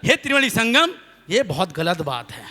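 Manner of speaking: lightly solemn appeal to the holy water; mock prayer. Poet appealing to the holy water, mock solemn. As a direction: invoke the river like a pleading devotee. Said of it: "हमने कहा".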